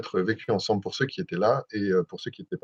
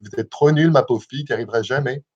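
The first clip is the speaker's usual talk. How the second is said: put-on Québécois accent, a bit louder; playfully ridiculous Québécois accent; 3 dB louder than usual. Shown as a demonstration. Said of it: "prenez un accent québécois".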